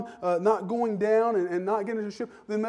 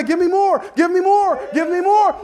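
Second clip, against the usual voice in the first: loud, high repeated give me more; eager demand; 10 semitones higher, 10 dB louder than usual. Acted. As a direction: press the demand over and over. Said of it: "I'm gonna say".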